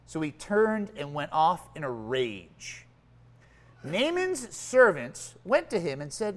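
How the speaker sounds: measured, dramatic Bible reading to a congregation; reading the Bible story to the church, carefully; scripture reading. Acted. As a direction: read the passage aloud with weight. Reads scripture aloud to congregation.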